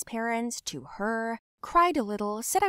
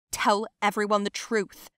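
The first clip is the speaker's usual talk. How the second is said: louder, angry insistence; heated, emphatic order; forceful demand; 5 dB louder than usual. Acted. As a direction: demand it loudly in the heat of a fight. Repeated demand in heated fight.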